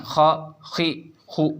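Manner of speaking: खा, खी, खू cut short with a jolt like a glottal stop; jerky syllables. Shown as a demonstration. Teacher warning against a jerk on खा, खी, खू, jerky. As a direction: clip खा, खी, खू abruptly, the wrong way. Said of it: "झटका हो जाएगा".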